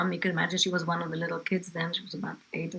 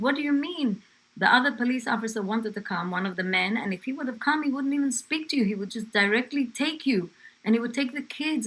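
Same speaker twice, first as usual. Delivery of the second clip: higher-pitched warning, acting out the policewoman; retold indignant threat; 5 semitones higher, 4 dB louder than usual. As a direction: press the threat home.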